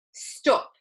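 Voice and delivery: a hissed warning; urgent whisper. Acted. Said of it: "said Mister Wonka".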